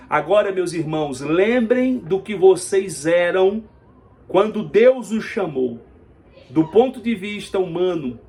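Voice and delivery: measured proclamation, leaning hard on key words; emphatic scripture reading. Real, not acted. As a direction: declaim the verse like a preacher.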